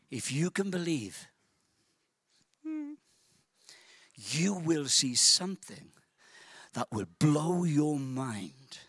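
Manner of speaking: Jesus hushed and tender to the sisters; soft promise. Acted. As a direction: lean in and promise them gently. Jesus softly promising a miracle.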